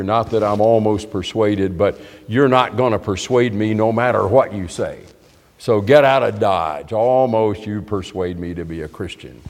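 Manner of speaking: dry, dismissive sarcasm; sarcastic. Acted. Agrippa refusing Paul, no matter what he says, sarcastic. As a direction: wave the persuader away with falling inflection. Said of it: "that kind of sarcasm".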